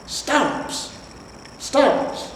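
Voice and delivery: put-on appalled old hero; shocked disbelief. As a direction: gasp it out in disbelief. Cohen shocked at lost forest.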